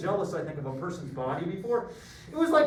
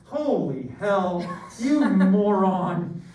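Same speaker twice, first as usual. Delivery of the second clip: mock outburst; 5 dB louder, much slower than usual. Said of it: "And I'm like".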